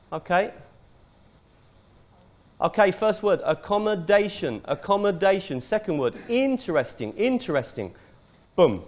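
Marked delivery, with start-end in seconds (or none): 3.5-5.6 "accommodation" twice, DA stressed; stress on fourth syllable. Shown as a demonstration. Teacher making a quick recording, stressing fourth syllable. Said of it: "The stress is on the fourth syllable". 6.3-7.9 "interesting" twice, IN stressed; stress on first syllable. Shown as a demonstration. Teacher making a quick recording, stressing first syllable. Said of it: "The stress is on the first syllable".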